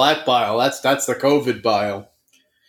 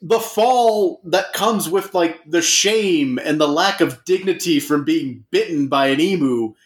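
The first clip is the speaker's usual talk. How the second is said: mock grave scientist; 5 semitones higher than usual. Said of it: "he's like".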